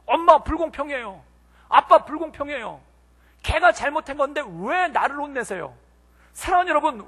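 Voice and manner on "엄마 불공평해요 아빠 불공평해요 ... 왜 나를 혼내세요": mildly acted wronged-child protest; aggrieved child. Elder child protesting to parents about being scolded, aggrieved. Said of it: "막 억울해서 죽으려고".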